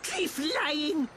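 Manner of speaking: indignant little creature; cartoon outburst of mild fury; mad. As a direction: accuse the chief in protest. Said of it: "Ricky mad".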